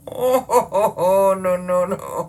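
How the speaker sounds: loud, drawn-out "oh, no, no"; distressed wail. Real, not acted. Recoiling from the dog meat story, distressed wail. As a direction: wail in horror, drawing out the oh. Reacts to dog legs being hacked off.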